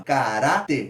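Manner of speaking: "Caráter" split with a drawn RÁ; ca, RÁ, ter, middle syllable standing out; stressed syllable demo. Shown as a demonstration. Teacher classifying the word, stressed RÁ. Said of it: "como urá".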